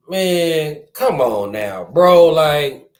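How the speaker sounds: loud, fed-up groan of disbelief on bro; exasperated outburst. Real, not acted. Reacting to the news about a rapper, an exasperated loud outburst. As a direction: blurt it out, fed up with the story.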